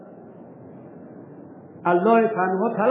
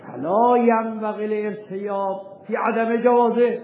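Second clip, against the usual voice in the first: reading Arabic text; 3 semitones higher, slower than usual. Shown as a demonstration. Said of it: "مرحوم حاج آرزو در مصباح میگه".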